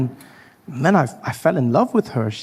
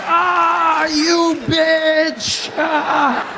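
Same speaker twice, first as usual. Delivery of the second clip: panicked curse; 14 semitones higher, much slower than usual. Retold or imitated. Seeing fifty cars coming, a high panicked curse. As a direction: yelp it out as fifty cars come. Cursing the oncoming traffic.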